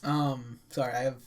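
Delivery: talking with the hiccups. Real, not acted. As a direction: speak through hiccups. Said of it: "I have the hiccups right now".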